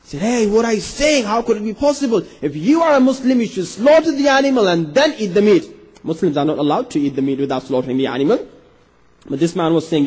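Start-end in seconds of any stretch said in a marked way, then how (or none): 0.2-5.6 higher-pitched indignant scolding; mock outrage, pitched up; angry ruler. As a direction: act out a ruler's indignant rebuke. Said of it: "The ruler got angry".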